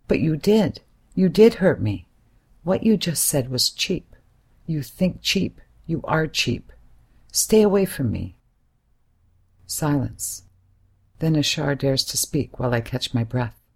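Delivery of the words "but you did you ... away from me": raised voice, stressing did; hurt anger. Acted. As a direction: push him away, hurt and furious. Hurt angry reply to Ashar.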